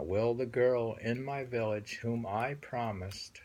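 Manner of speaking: whispered reread of the poem line; whispered reading. Acted. Teacher rereading the poem to her student, whispered. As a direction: breathe the line out, no voice.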